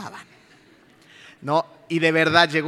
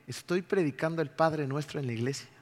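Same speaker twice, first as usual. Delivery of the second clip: ironic; 4 dB quieter than usual. Retold or imitated. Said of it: "Irónicamente dije".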